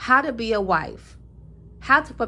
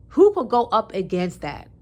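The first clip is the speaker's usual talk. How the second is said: who thrown out louder; proud louder who could go up against that; emphatic challenge; 4 dB louder than usual. Shown as a demonstration. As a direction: dare anyone to argue. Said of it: "repeated louder".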